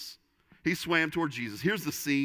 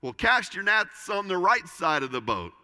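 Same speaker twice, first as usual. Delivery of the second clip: mild call out; 4 semitones higher, 4 dB louder than usual. Retold or imitated. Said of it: "the voice yells back".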